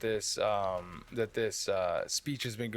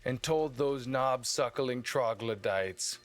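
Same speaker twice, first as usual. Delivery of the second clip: rousing speech. Acted. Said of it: "and he would go".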